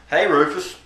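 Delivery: a hint of a neighbor impression; mock neighbor voice. Neighbor hailing the man waiting for a fight, lightly mimicked. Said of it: "this is my impression of him".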